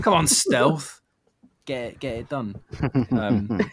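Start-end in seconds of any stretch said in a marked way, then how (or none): 0.0-2.6 playful urging. Pretend. Jokingly urging a developer.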